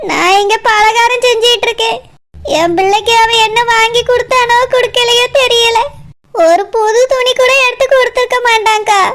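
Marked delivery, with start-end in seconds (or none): 2.6-5.8 crying. Acted. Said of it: "ஏண்டாம்மா அழுதுட்டு இருக்கா".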